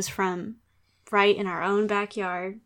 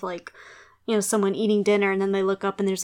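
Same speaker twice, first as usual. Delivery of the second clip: normal talking voice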